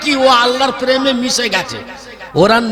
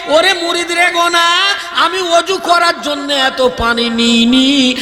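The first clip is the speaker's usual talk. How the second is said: saint's voice; 3 semitones higher than usual. Acted. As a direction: sound like a patient holy man soothing an angry follower. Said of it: "পিরানে পীর বলে".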